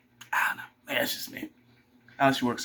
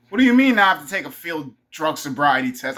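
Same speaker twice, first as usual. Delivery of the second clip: indignant protest; 3 semitones higher, 7 dB louder than usual. Retold or imitated. Acted protest to imagined officer.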